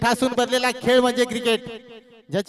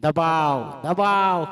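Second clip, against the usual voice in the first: dropped, low-pitched single words; low, weighty repetition for suspense; ominous pressure call; 7 semitones lower, much slower than usual. Real, not acted. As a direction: sink the voice on each दबाव, pausing between. Commentator dwells on match pressure.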